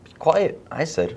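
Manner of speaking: Jesus rebuking. Acted. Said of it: "Jesus could have said".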